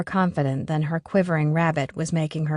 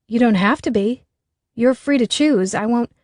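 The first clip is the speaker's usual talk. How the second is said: flustered; 5 semitones higher, 4 dB louder than usual. A narrator's reading. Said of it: "she paused, flustered".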